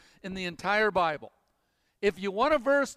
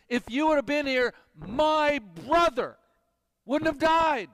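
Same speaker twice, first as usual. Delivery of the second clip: emphatic reproach; 4 semitones higher, 3 dB louder than usual. Retold or imitated. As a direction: lean hard on every word, grieving and accusing. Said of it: "It is used so emphatically".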